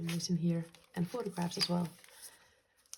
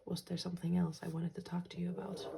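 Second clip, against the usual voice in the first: whispering. Real, not acted. Musing aside.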